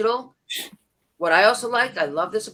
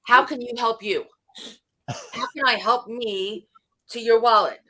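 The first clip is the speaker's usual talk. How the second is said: mock translation. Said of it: "you know what they hear".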